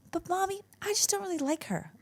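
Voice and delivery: put-on high little-girl voice, laughing; little girl explaining to her mum, high and laughing; four-year-old. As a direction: play the blunt little child, giggling. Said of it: "She's four years old".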